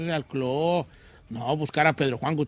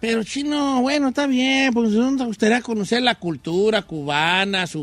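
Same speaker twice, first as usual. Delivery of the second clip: lightly voiced old man; 2 semitones higher than usual. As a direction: talk like a frail old man. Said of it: "está hablando como viejito".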